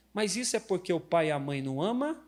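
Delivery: ordinary delivery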